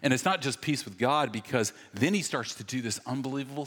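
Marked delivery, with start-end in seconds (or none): none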